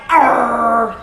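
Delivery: short mock growl; dog growl. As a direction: snarl back like a dog with a bone. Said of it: "and they're going".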